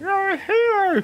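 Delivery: high, slow crowd cheer; hyping the crowd. Acted. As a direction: pump up the crowd from hiding. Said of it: "like ventriloquist".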